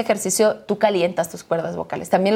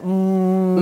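vibrating hum. Shown as a demonstration.

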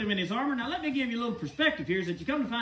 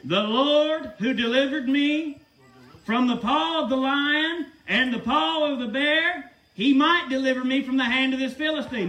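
confident declaration; 3 dB louder than usual. Acted. Preacher voicing David's confident faith.

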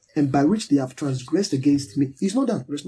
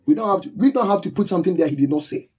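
louder, higher, driving the point home; emphatic preaching; 3 semitones higher, 3 dB louder than usual. Acted. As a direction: pound the word all. Preacher stressing all.

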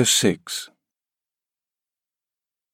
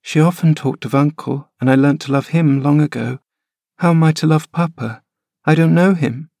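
put-on high, plaintive child voice, pitch rising; a frail boy pleading to stay; sickly boy; 7 semitones higher than usual. Linton protesting to his nurse, high whining boy.

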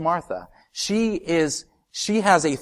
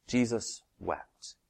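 slow and soft, full weight on Jesus; hushed, slow; 2 semitones lower, 8 dB quieter, much slower than usual. Shown as a demonstration. Preacher reading the shortest verse to the church, hushed and slow. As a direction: let the verse hang quietly. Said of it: "repeats verse".

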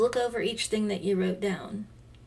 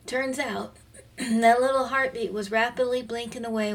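choked up; 3 semitones higher than usual. Real, not acted. Mother recalling her baby's heartbeat, voice catching with tears.

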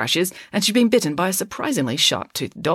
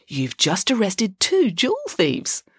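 slow, higher-pitched coaxing; soothing, velvety; 5 semitones higher, slower than usual. A narrator's reading. Loretta persuading the concussed constable, soothing and velvety. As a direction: soothe him slowly, feeding him the story. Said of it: "using her soothing, velvety voice".

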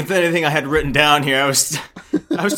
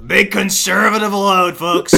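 Trump impression; slower than usual. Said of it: "My Trump impression".

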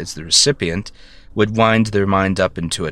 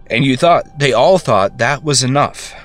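raised, louder, higher bitter outburst; bitter rant; 3 semitones higher, 3 dB louder than usual. Acted. Ranting over the favored brother's grave, loud and bitter. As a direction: throw years of resentment at him.

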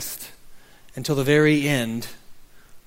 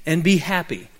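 gentle storybook reading, voices only lightly marked; story narration. A narrator's reading. Preacher reads the congregation a story of tree and boy, storybook narration.

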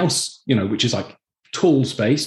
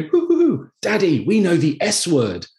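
put-on much higher giggly hoo hoo of little girls; giggling daughters; 5 semitones higher than usual. Dad imitating his giggling daughters. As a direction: tease like a giggling child. Daughters chuckling on the bunk bed.

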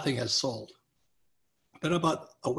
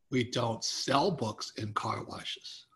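skeptical car wash owner; 5 semitones lower, 6 dB quieter, much slower than usual. Retold or imitated.

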